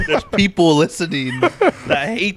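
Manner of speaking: laughing while complaining. Real, not acted. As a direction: giggle through the complaint. Laughing complaint about chewing.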